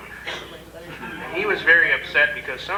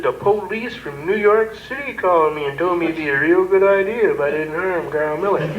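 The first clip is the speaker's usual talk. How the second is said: higher flustered sheriff; upset sheriff; 4 semitones higher than usual. Retold or imitated. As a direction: keep the sheriff rattled. Sheriff continues.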